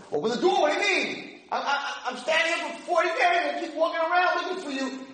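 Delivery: high, insistent plea; pleading prince. Retold or imitated. Prince pleading with the princess to open the door, high and insistent. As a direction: beg her to open up.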